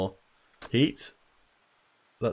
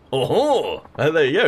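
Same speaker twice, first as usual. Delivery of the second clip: put-on French accent; 7 semitones higher, 6 dB louder than usual. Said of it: "he's French".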